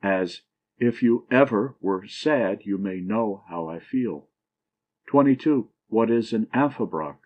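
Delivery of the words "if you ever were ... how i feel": two light beats then a weight: ever, sad, know, feel; anapestic stress. Shown as a demonstration. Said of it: "last syllable accented and the first two not".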